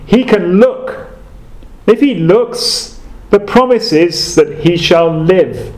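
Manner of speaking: put-on country preacher with a broad Essex accent; plain-spoken Essex preaching, lifting the pitch on key phrases. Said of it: "He went on in his broad Essex accent".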